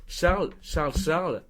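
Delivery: mildly acted summons, names repeated; urgent calling. Retelling Tanguy calling Charles over, mildly urgent. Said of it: "et qui fait".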